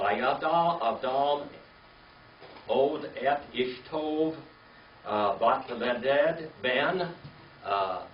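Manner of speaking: slow, careful reading of the Hebrew verse. Shown as a demonstration. Teacher reading the Hebrew verse to class slowly.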